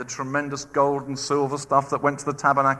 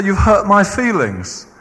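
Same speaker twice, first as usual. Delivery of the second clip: mock hurt; 3 semitones higher, 7 dB louder than usual. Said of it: "It doesn't say".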